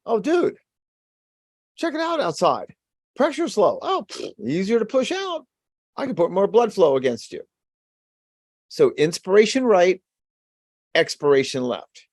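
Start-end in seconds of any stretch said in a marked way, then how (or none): 0.0-7.4 high-pitched dude voice bragging about easy pushing; excited aortic valve. Acted. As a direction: play the valve as a pumped-up bro. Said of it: "the aortic valve's like".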